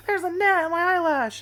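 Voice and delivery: high, loud whiny panic; mock panic about a bug; panicked sister. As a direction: mimic sister's frantic complaint. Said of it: "she's like".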